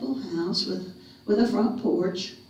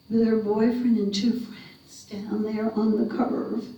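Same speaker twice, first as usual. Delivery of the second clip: tearful. Acted. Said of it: "She started crying even more".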